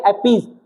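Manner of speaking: अपीज ending in a buzzing Z; अपीज, final sound a clear Z; pronunciation with Z. Shown as a demonstration. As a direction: say अपीज with a voiced Z, not S. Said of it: "क्या पढ़ते हैं?".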